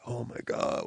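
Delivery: very soft, deflated mutter; worn out before showtime; weary groan. Retold or imitated. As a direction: sigh it out under your breath. Sick, weary before show opens.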